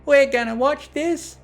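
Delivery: a shrill Manhattan sock puppet mouthing off; sassy Manhattan puppet. A narrator's reading. The sock puppet heckles Twilight's movie in a sassy Manhattan accent. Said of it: "shrill, sassy Manhattan accent".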